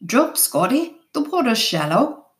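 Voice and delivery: restrained sailor's call; yelled warning. A narrator's reading. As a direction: call a warning to a boatmate without much volume. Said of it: "Someone yelled".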